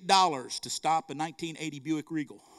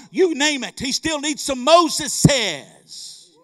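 building preacher's shout; 4 semitones higher, 9 dB louder than usual. Real, not acted. Preacher rousing the church about a living God, building to a shout. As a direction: preach it up into a full cry.

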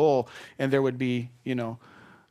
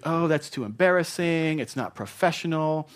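husband whining to his wife about calls; mock whining; 2 semitones higher than usual. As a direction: complain like a caught spouse. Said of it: "don't start whining".

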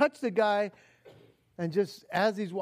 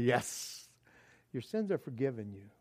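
soft Jesus line; 8 semitones lower, 7 dB quieter than usual. Retold or imitated.

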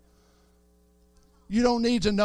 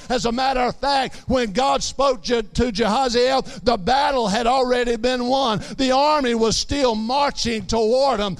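raised, driving sermon voice; rising preaching; 3 semitones higher than usual. Acted. Preacher proclaiming the battle already won, rising preaching. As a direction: drive it home to the congregation.

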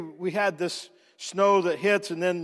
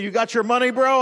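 neighbor's line; 5 semitones higher, 6 dB louder than usual. Retold or imitated. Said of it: "he said".

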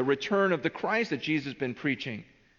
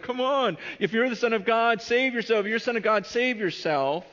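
higher-pitched jeering challenge; mocking taunt; 7 semitones higher than usual. Crowd jeering at Jesus on the cross, mocking. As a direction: goad him in a raised, insistent voice. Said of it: "Everyone's mocking Jesus as he's on the cross".

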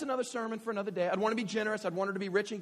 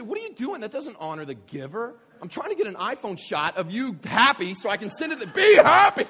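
exasperated dad; 4 semitones higher, 14 dB louder than usual. Retold or imitated. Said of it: "I would say".

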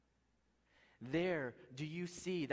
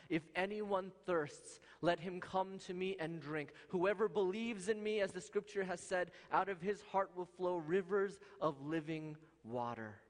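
raised preacher's proclamation; crying out; 4 semitones higher than usual. Retold or imitated. Preacher voices Jesus calling the thirsty, crying out. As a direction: proclaim it, imitating a public cry. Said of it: "Jesus cries out".

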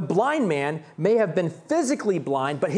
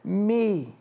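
crying out; 9 semitones higher than usual. Shown as a demonstration. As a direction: call out over the crowd. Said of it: "again, he cried out".

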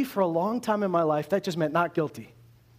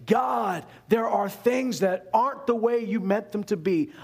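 raised voice calling out to God; crying out; 3 semitones higher than usual. Retold or imitated. Preacher crying out to God about disorder, raised voice. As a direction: call out to God in frustration.

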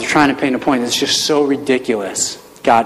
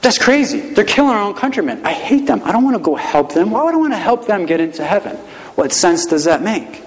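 higher, worked-up protest; indignant Jonah; 7 semitones higher than usual. Retold or imitated. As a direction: balk at God's order, outraged. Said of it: "Jonah's like".

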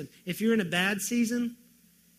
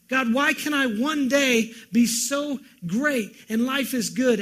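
pained plea to God; 5 semitones higher, 7 dB louder than usual. Acted. Voicing anguished plea.

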